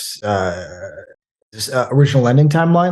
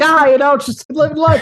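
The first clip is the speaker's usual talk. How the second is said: higher, easygoing Midwestern small talk; Midwestern chit-chat; 12 semitones higher than usual. Retold or imitated. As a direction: chat like a laid-back Midwestern dad. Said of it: "the old Midwestern sort of, like, chit-chat".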